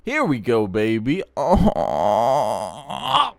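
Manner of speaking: loud, drawn-out excited "oh"; thrilled cheer. Real, not acted. Host cheering as a Ford Lightning appears, thrilled. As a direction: hype it up, voice swooping on a long whoop. Truck he likes appears on screen.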